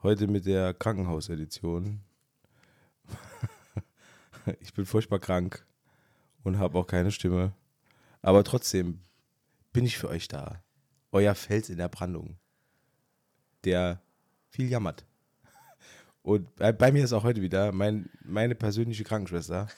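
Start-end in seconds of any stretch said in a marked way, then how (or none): 4.6-15.1 hoarse from a cold; raspy voice. Real, not acted. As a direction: rasp through a sore throat. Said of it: "meine Reibeisenstimme". (heiser, kratzige Stimme)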